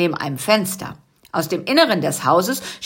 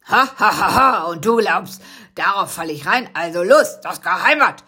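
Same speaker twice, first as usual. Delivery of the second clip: mocking threat. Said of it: "drohte der Türwächter".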